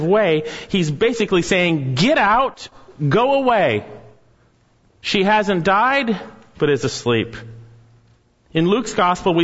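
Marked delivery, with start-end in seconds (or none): 1.9-7.4 indignant Jesus. Retold or imitated. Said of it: "he is a little indignant".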